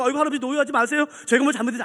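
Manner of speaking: hurried acted apology; flustered employee. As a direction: placate the customer in a hurry. Flustered employee placating shouting customer.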